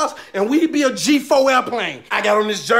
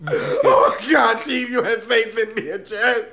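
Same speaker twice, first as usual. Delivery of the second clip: laugh-crying in disbelief. Acted.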